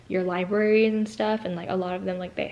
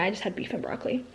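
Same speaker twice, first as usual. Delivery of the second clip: whispered aside; 4 dB quieter, much faster than usual. Real, not acted. Quick aside to viewers.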